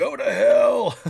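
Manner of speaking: very loud, high, booming yell. Retelling a running joke at work when someone sneezed: imitating a yell. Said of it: "you would just yell".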